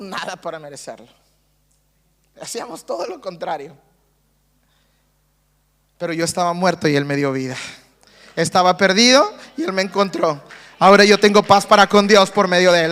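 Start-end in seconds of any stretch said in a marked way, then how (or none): 6.0-12.9 louder and louder, lines a bit fast; preacher proclaiming new life, swelling to a shout; rising preached declaration. Real, not acted. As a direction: build it to a shout of triumph.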